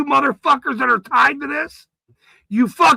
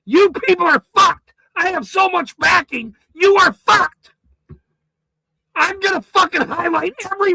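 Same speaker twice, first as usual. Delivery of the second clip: ranting shout; 3 semitones higher than usual. Real, not acted. Shouting threats at the town officials, raised and furious. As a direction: blast them with threats, voice cracking with rage.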